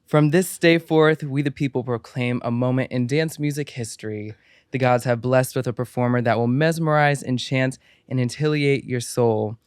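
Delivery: grand ceremonial announcer; formal introduction. Pretend. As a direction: proclaim it like a herald to a crowd. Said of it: "give a formal, formal intro".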